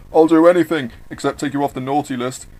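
plea that starts loud, then drops to normal; plead, loud on the first words; bargaining plea from a captive; begging. Acted. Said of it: "Santa begs".

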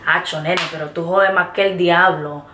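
casual Puerto Rican Spanish; Puerto Rican accent. Shown as a demonstration. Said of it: "hear a lot of Puerto Ricans saying".

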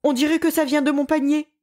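high, fast frightened exclamation; terrified cry. A narrator's reading. Bear hears his basket groan and cries out terrified. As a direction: blurt it out, scared out of his wits. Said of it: "s'écria Frère Ours, terrifié".

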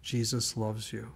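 slow, soft and solemn; hushed retelling. Acted. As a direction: let it land slowly, almost in awe. Man's hushed retelling of the screamed words.

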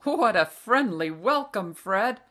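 loud, hearty mock-welcome; jovial greeting. A narrator's reading. Father to his old classmate, hearty and amused. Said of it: "Father laughed".

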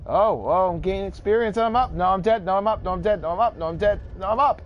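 excited. Real, not acted. Excited alternating as stats flip.

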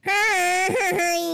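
odd, eerie little greeting; creepy voice. Acted. Brother playing cursed, greeting him in a creepy voice. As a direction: greet him like something possessed. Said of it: "That's super creepy".

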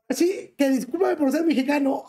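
laughing through a sarcastic sorry; laughing apology. Real, not acted. Streamer to his viewers, laughing sarcastic apology. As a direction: chuckle while mock-apologizing for being Mexican.

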